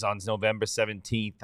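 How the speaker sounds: put-on "November seventeenth" said in a slipping New Jersey accent. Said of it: "uh, New Jersey accent".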